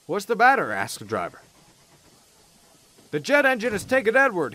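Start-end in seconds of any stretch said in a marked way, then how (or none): 0.1-0.7 higher, urgent query; concerned question. A narrator's reading. Driver asking the stationmaster what happened, higher and concerned. 3.1-4.6 high, out-of-breath urgency; panting exclaim. A narrator's reading. Stationmaster reporting to Gordon's driver, breathless and high. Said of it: "he exclaimed pantingly".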